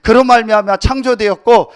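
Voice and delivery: loud, ringing pulpit proclamation; loud sermon climax; full-force preaching. Acted. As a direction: preach it out to the whole congregation.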